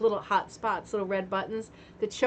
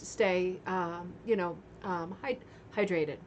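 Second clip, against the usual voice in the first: sarcastic; 3 semitones lower, 3 dB quieter, slower than usual. Real, not acted. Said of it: "I'm being a bit sarcastic".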